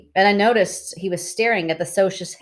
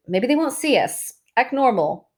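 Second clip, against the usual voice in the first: put-on girl's voice; 7 semitones higher than usual. A narrator's reading. Cherry's nervous quote.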